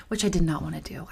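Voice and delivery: breathy whisper, half-laughing; whispered aside. Real, not acted. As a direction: drop it to a whisper: "which I did not wanna do". Aside while laughing about home club.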